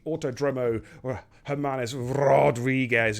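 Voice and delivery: lightly put-on bad Mexican accent on the name; a hint of a terrible Mexican accent. Shown as a demonstration. Host jokingly naming the track in a bad Mexican accent. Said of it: "with a terrible Mexican accent".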